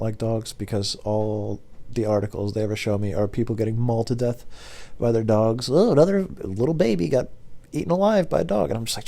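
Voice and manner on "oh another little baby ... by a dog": higher, singled-out headline voice; mock news reaction. Scrolling iPhone articles about dogs, higher mock-reading voice. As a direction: read the grim headline in a raised voice.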